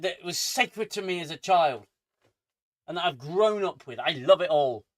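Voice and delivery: loud, emphatic, defiant declaration; angry rant. Real, not acted. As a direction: punch out each declaration loudly. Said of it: "I am angry".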